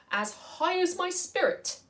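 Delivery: high, bold voice of a tiny valiant mouse; proud mouse. Acted. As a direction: declare it like a gallant mouse knight. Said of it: "it said".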